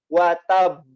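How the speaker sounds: "Wa tab" with a firm echoing b at the end; qalqalah bounce. Shown as a demonstration. Teacher demonstrating qalqalah kubro, strong final bounce. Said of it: "Jadi dia agak kuat".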